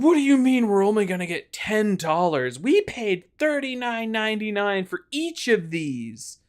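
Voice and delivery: fuming. Retold or imitated. Offended mother protests the trade-in price, indignant. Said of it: "you could see her fuming".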